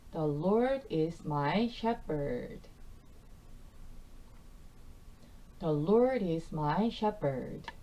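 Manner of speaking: each word slow and clear for learners; slow repeat-after-me. Shown as a demonstration. Teacher modelling a Bible verse slowly for students. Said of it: "같이 반복 선포해 보면서".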